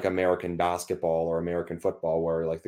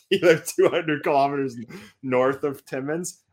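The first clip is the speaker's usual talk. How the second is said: Canadian accent; 5 semitones higher than usual. Shown as a demonstration. Reading the meme for co-host, Canadian accent. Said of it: "do the whole meme in your accent".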